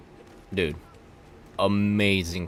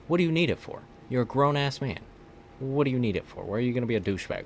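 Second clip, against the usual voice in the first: raised, fast, incredulous; indignant rant; 6 semitones higher, faster than usual. Real, not acted. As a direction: demand it with disbelief. Ranting about the director.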